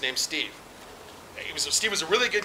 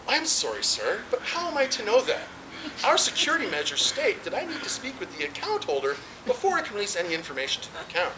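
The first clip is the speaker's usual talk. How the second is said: best phone voice; 3 semitones higher, 3 dB quieter than usual. Retold or imitated. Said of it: "in my very best phone voice".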